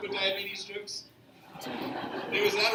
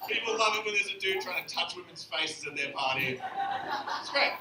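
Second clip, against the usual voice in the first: put-on Aussie accent; hammed-up party bloke with an Australian accent; 4 dB louder than usual. Comic coaching men at parties, Australian accent. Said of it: "saying some really offensive things with an accent".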